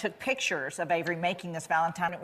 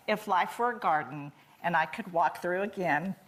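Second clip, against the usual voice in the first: choked up reading; 3 semitones lower than usual. Real, not acted. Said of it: "hard time talking about it without choking up".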